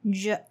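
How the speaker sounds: J said as a voiced zh; zh sound. Shown as a demonstration. Teacher showing voiced zh to learners. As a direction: buzz the J as zh. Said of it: "when you pronounce J".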